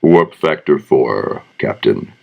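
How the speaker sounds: slow, measured line, dropping low on Captain; stately sci-fi helmsman's line; famous catchphrase delivery. Shown as a demonstration. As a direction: deliver the catchphrase slowly, letting the last word sink. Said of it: "Give us your famous line".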